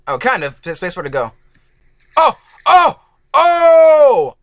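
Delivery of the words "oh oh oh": sharp high yelps of shock; excited yelp. Real, not acted. Gamer yelping as his rider gets hit. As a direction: yelp at the crash. Crash in Happy Wheels.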